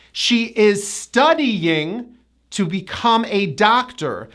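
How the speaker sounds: slow, spaced example with studying as stu-dee-YING; careful model sentence, studying in three syllables; strong Y. Shown as a demonstration. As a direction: push the Y in studying. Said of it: "with a strong Y".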